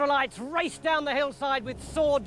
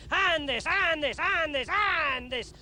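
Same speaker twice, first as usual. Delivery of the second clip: eager repetition; 6 semitones higher than usual. Acted. Saul piling on medals.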